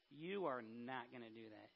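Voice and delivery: low, soft, firm retold objection; Peter, quiet objection. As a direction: act out a hushed, firm refusal.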